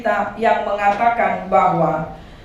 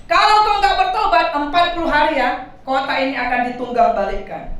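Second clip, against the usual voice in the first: angry preaching Jonah. Retold or imitated. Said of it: "Khotbahnya pun penuh dengan marah".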